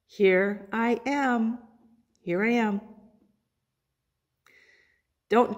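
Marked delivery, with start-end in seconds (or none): 0.0-2.8 slow reverent response. Shown as a demonstration. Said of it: "Say it with me".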